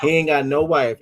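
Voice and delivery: "He ain't got no wife" called out, stress on "ain't"; emphatic repeat. Real, not acted. Mocking the commenter's lonely life, an emphatic mock call-out.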